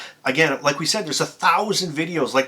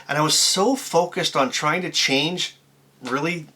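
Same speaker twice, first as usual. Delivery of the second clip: ordinary delivery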